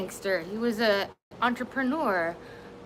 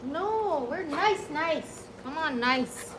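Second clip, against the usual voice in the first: cooing pet talk; 5 semitones higher, 5 dB quieter, slower than usual. Real, not acted. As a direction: croon to the dog. Soothing dogs sweetly.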